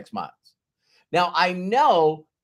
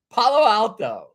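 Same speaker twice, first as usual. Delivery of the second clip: laughing repeat; 6 semitones higher, 5 dB louder than usual. Real, not acted.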